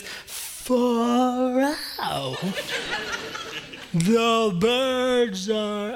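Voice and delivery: very slow, drawn-out turtle voice. Acted. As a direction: stretch every word like a sleepy turtle.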